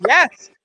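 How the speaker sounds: emphatic YES, pitched high and loud. Acted. Trainer answering a clueless investor's question, emphatic YES.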